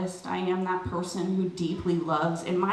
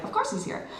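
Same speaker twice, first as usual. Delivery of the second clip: high mock greeting; 12 semitones higher, 3 dB quieter than usual. Mock excited greeting to landlord.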